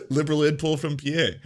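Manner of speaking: words coming out of a laugh; real amused laughing. Real, not acted. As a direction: chuckle into the phrase. Laughs at the jibe.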